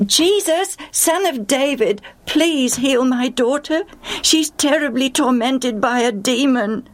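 desperate mother crying out for help; excited calling out. Acted. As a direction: call to him urgently in a high voice. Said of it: "in her excitement, she began to call out".

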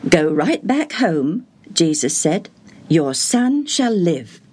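slow, calm, assured; calm Jesus. Acted. Jesus answers calmly.

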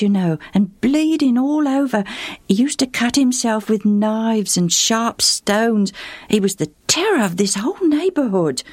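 put-on a cheerful boy helping a traveller; eager boy. Boy describes changed Legion.

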